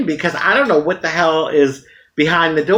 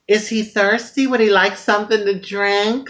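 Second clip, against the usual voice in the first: higher, sweet hostess voice; mock-sweet high offer of a drink; woman offering the child a drink, mock high voice; highest voice; 5 semitones higher than usual. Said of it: "in my highest voice possible".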